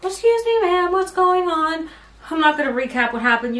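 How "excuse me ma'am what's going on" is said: lightly voiced calm official, pitched higher; mock calm. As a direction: mimic his overly calm polite tone. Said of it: "like, so calm".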